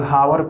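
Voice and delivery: हावर with the h sounded at the start; misreading with H. Shown as a demonstration. Teacher shows learners how many misread hour, h sounded. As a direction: say हावर wrongly, voicing the silent h. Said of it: "क्या पढ़ते हैं".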